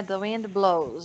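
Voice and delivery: slow model reading, "blows" ending in z; "blows" said slowly with a buzzing final z; final Z sound. Shown as a demonstration. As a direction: draw out BLOWS into a voiced z. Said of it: "a maioria das vezes tem som de Z".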